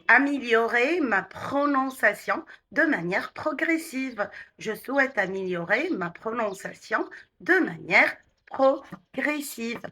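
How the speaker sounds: connected phrasing, still unhurried. Shown as a demonstration. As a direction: let the sentence flow a little, without rushing. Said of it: "légèrement plus naturel, sans précipitation".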